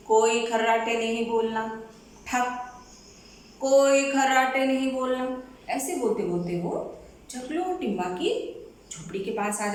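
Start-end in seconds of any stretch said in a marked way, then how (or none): 0.1-5.4 watchman calling out. Acted. Watchman calls out his rounds.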